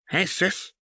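put-on high playful girlish voice; sly little sister greeting; high and teasing; Jinx's voice. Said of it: "with a faint smile".

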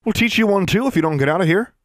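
high, loud threat; threatening. Acted. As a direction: warn her off hard. Bully threatening newcomer.

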